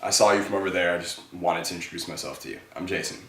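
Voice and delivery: no big deal, take your time; easy and relaxed. Shown as a demonstration. Coach shows guys a relaxed intro, easy and calm. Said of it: "Easy, relaxed, no big deal".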